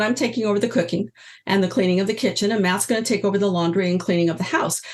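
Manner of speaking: put-on rattled off fast, eager kid's announcement; quick retelling of son. Son announcing to mom he takes over chores, fast and eager. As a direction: rush it out like a determined little boy.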